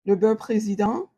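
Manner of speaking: "Le beurre président" said the French way, uvular r, nasal final "dent"; French pronunciation. Real, not acted. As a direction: say "Le beurre président" like a native Parisian. Naming French butter brand.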